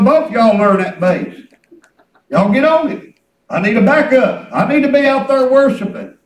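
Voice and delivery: loud, driving sermon delivery; fervent preaching. Real, not acted. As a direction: preach it out with punched phrase endings. Preaches with full voice.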